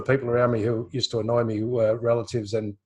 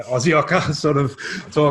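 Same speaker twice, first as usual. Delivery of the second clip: laughing; 3 semitones higher, 5 dB louder, slower than usual. Real, not acted. Laughs while naming her accent.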